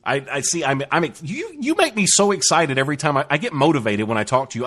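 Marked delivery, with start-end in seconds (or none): 1.2-4.7 gushing with a lift in pitch at the start; excited. Real, not acted. Host gushing to the guest who motivates him, excited. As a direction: let the excitement show, then settle. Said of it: "I can hear it in your voice".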